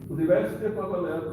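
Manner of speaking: playfully stiff-upper-lip British; mock British accent. Sensei cueing the class's royal tribute, in mock British.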